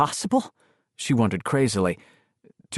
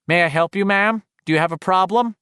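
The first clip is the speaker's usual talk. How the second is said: higher, louder operator voice, sharp and cold; spitting operator; 7 semitones higher, 5 dB louder than usual. Acted. Phone operator's voice hissing at frightened Patty, higher and louder. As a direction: spit the polite words like a snake. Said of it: "The snake spat at her".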